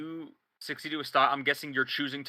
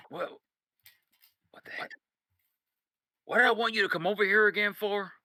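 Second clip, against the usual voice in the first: trailing off then high and puzzled; confused; 7 semitones higher than usual. Acted. Boss asking player, confused and puzzled. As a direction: lose the thread, puzzled. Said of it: "He goes".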